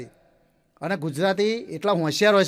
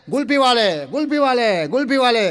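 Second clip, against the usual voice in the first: louder, sing-song hawker's cry of ગુલ્ફીવાલે; street vendor call; 4 semitones higher, 4 dB louder than usual. Retold or imitated. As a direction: call ગુલ્ફીવાલે out like a kulfi seller in the lane. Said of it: "રોજ પેલી ટેવ હોય ને".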